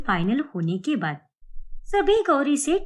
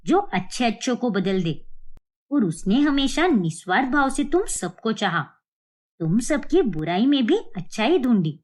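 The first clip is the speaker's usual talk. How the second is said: stern grandmother; 2 semitones lower than usual. Acted. Grandmother reproaches the family.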